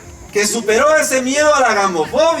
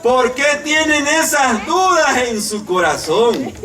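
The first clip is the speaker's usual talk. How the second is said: slow question; 2 semitones higher, slower than usual. Acted. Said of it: "dice así precisamente".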